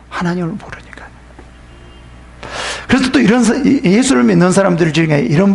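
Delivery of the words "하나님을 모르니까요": soft, hushed reply; whispered answer. Real, not acted. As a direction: give the reason under your breath. Preacher answers own question.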